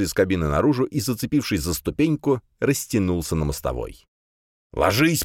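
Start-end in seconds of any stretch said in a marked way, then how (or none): 4.7-5.2 yelling. A narrator's reading. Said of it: "истошно заорал он".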